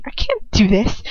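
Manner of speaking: barely voiced dread; frightened whisper. A narrator's reading. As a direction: whisper it in panic. Narrator's inner panic.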